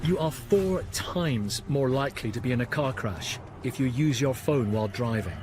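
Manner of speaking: punchy documentary voiceover; tabloid tv host. A narrator's reading. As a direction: sell the shock like a TV narrator.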